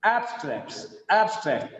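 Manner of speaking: full A in "abstracts", AB-stracts; strong AB opening "abstracts"; stressed first syllable. Shown as a demonstration. Teacher showing the noun, full stressed AB in "abstracts". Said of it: "it is ab".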